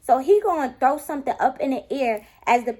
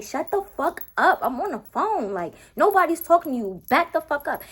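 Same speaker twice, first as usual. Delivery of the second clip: higher, sharp mock telling-off; snapping at him; 5 semitones higher than usual. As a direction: shut him down. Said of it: "he just loud in my ear".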